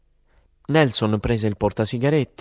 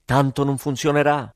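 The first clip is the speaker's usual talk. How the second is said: put-on a lightly read drunk yell over music; understated threatening shout; mild shout; 4 semitones higher than usual. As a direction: call it out half-hearted, barely raised. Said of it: "Gridò".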